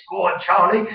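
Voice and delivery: cheery Essex shout of encouragement. Retold or imitated. Host imitating himself cheering Charlie in Essex accent. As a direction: Essex geezer egging him on.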